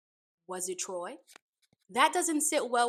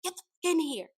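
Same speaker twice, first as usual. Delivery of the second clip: loud, higher mock yell ordering him in; imitated yelling; 6 semitones higher, 6 dB louder, faster than usual. Retelling how she yells at Troy, loud mock yell. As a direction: bark it like she's screaming through the door. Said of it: "she's yelling at him".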